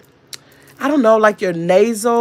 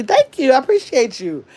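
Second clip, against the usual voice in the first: appreciative thanks; 5 semitones higher than usual. Real, not acted. Thanks live viewer for subscribing.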